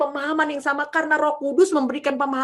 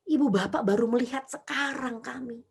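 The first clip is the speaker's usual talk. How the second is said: usual speaking voice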